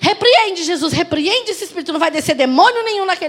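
high, forceful imitation of prayer; bold rebuking prayer. Son praying against demons, imitated bold rebuke. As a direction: launch into a fervent mock rebuke.

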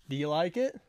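hushed little check for approval; soft asking. Real, not acted. Same question repeated softly.

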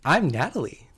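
exaggerated imitation of a co-host; Natalie. Co-host teasing his friend with her own introduction, playful impression. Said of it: "Do I sound like that?".

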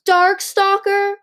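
loud, high, drawn-out roar of disbelief. A narrator's reading. Winter learns who the trapped dragon is, roaring. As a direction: roar the name in outrage. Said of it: "Winter roared".

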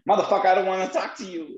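high, fast hammed-up curse-out; mock rude brush-off. Brushing off a pushy stranger, mock rude and fast. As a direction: rattle off the insult in a put-on voice. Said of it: "So what do you speak".

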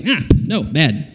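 short, sharp scolding as if to a pet; mock rebuke. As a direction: cut in with a mock reprimand. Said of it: "Sometimes training is rebuke".

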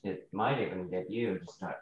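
put-on character's British accent creeping back; slipping into British accent. Player reads his line, British accent returning unintended. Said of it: "You're doing the accent again".

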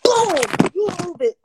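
hissed under breath; whispered threat. Retold or imitated. Acted quote of own threat.

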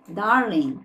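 Darling ending on a bare n, no g; darling without the g. Shown as a demonstration. Teacher shows Darling without the g. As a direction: say Darling and drop the final g. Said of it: "a gente não vai falar o G".

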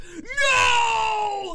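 high, loud scream; retold scream. Parents spotting the worm, screaming. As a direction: shriek it in alarm. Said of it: "we scream".

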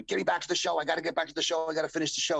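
concussed wrestler begging his driver; pleading. Retold or imitated. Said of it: "so I bugging the".

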